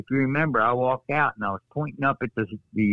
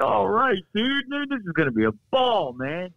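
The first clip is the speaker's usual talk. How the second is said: imitating excited friend; 9 semitones higher than usual. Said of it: "He was like".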